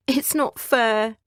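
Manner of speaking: high, slow, tearful complaint; sobbing. Acted. Youngest son mourning his father, slow sobbing. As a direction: choke it out like a boy who lost everything. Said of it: "he sobbed".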